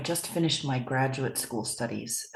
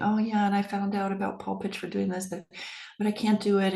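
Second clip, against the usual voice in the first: whiny voice; 5 semitones higher than usual. Retold or imitated. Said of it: "in this kind of whiny voice".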